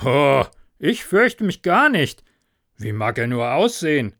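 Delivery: loud tipsy bravado; boastful farmer. Acted. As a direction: puff up with drunken courage.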